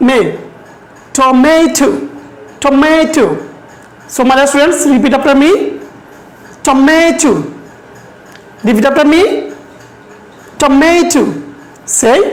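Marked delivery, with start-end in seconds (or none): 1.2-3.3 Tomato with the middle syllable stressed and held. Shown as a demonstration. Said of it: "মাতে জোর দিচ্ছি". 6.7-7.3 Tomato with the middle syllable stressed and held. Shown as a demonstration. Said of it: "we stress on ma". 10.6-11.2 Tomato with the middle syllable stressed and held. Shown as a demonstration. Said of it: "we stress on ma".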